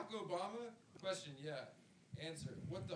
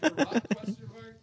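high loud outburst; shouted; 5 semitones higher, 17 dB louder than usual. Acted. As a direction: bellow the name. Acting out interview, shouting.

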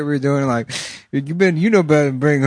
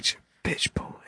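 whispering; 13 dB quieter than usual. Acted. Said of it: "Why are you whispering?".

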